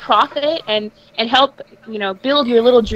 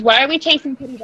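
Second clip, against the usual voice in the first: glitching audio. Real, not acted. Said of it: "Your mic is breaking up".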